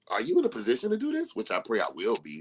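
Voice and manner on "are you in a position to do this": inner voice. Retold or imitated. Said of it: "think a lot, like".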